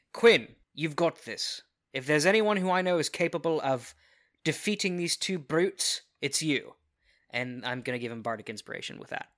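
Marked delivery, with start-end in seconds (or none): 0.1-6.7 encouraging pep talk. Acted. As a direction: pump him up before the fight. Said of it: "I'm going to say".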